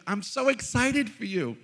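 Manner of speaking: high, loud, drawn-out mock delight; gleeful excitement. Spiritual director cheering a man in trouble, gleefully excited. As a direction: gush with exaggerated joy, slowly. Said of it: "you know what she said?".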